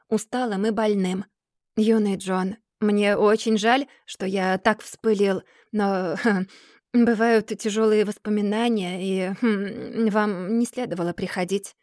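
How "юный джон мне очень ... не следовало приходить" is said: slow, subdued regret with hesitations; weary apology. Acted. Tired Mr. Dorrit regrets his temper, subdued and halting.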